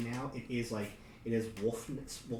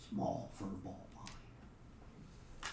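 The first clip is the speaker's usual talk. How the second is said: wolf voice; 6 dB quieter, much slower than usual. Acted. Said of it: "you can hear one of 'em tell".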